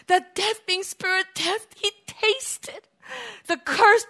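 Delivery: impassioned preaching, rising and falling; fervent sermon. Real, not acted. Preacher to congregation, fervent sermon.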